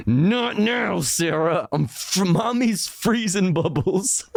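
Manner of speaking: lightly acted mother brushing off her kid; mock distracted mom. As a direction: play a mom too busy filming to look. Voices distracted mother brushing off child.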